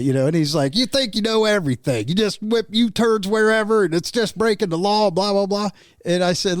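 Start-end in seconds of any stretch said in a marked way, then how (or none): 0.8-5.7 slightly raised, mimicked griping; mock scolding, higher in pitch; retold upset rant. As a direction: imitate an upset man ranting, mildly. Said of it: "This guy was really upset".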